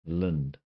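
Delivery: "Lind" with a short clipped i vowel; the Kiwi vowel in "Lind". Shown as a demonstration. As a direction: say "Lind" the way a Kiwi says land. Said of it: "comes out as".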